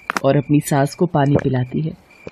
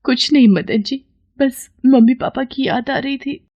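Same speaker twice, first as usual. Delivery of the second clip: put-on high, meek young wife voice; small, high, sad voice; tearful; 8 semitones higher, 3 dB quieter than usual. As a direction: answer softly through held-back tears. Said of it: "नैना को रोता हुआ देख".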